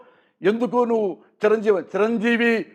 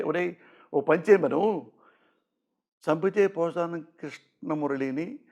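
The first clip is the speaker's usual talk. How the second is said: retold threat; 3 semitones lower, 5 dB quieter than usual. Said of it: "అని కూడా చెప్పా".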